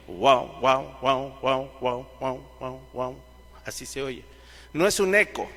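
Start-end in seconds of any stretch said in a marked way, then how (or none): 0.1-3.2 lower, wavering wah wah imitation fading away; tremolo sound. Shown as a demonstration. Preacher imitates a guitar tremolo for the church, wavering wah wah fading out. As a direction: mimic a tremolo effect with your voice, letting it die out. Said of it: "el sonido se oye".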